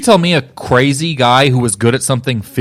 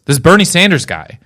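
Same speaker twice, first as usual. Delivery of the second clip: Rob Schneider; 5 semitones higher than usual. Retold or imitated. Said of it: "he goes".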